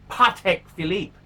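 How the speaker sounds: Patek Philippe with a pah-TEK and fee-LEEP sound; French-style Patek Philippe. Shown as a demonstration. Vlogger drilling viewers on the Patek Philippe accent. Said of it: "You gotta get that, that, that accent right".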